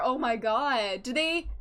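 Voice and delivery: ordinary talk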